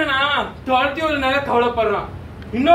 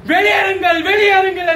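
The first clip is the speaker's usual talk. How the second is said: higher, raised-voice evacuation order; commanding voice; 5 semitones higher, 3 dB louder than usual. Retold or imitated. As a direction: call out an urgent order to the crowd. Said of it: "என்ற குரல்".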